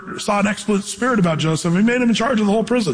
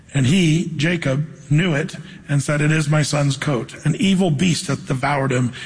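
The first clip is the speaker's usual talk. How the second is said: scripture reading. Acted. Preacher reading Genesis to the congregation, solemn. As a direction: read the King James text with weight.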